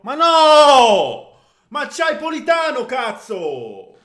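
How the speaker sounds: high, loud furious yell; angry shout. Real, not acted. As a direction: yell at the teammate's choice. Screaming at wasted pass.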